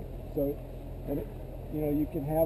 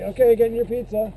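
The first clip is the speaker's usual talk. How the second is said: put-on higher, louder chirpy kids calling out; bright eager chant of kids fetching pizza; cheerful kids' voice; 7 semitones higher, 9 dB louder than usual.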